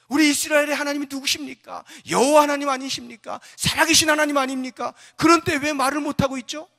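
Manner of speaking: high, loud rhetorical questions; impassioned challenge. Acted. David challenges his brother over the living God, impassioned. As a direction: fire each question out at full voice. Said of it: "그와 같은 말을 하는 거예요".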